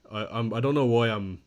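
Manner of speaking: repeating I before getting going; stuttering. Real, not acted. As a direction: stammer through the start of the line. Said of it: "I'm actually stuttering today".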